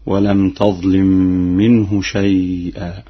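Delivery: slow, measured tajweed recitation; Quran recitation. Shown as a demonstration. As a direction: recite slowly with drawn-out nasals and vowels.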